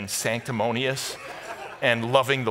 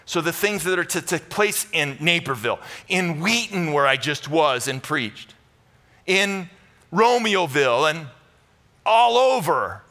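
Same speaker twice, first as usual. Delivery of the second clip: rising louder and higher; building preach; 3 semitones higher, 4 dB louder than usual. Acted. Pastor naming local towns, building to a shout.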